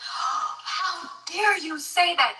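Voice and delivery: slow, high outraged judge with a gasp; gasp, then drag it out like a scandalised judge; mocking the judge. Mother imitating the judge scolding her, slow and outraged. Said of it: "This is Judge Timothy Shea".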